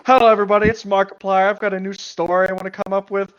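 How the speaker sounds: loud, booming greeting to viewers; mock video-host intro, starting loud; Markiplier. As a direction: imitate a YouTuber opening a video. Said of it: "someone isn't impersonating Markiplier".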